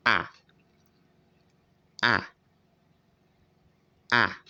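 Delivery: short open ah, lips spread, mouth wide; drawn-out ah. Shown as a demonstration. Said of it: "Lips should be spread".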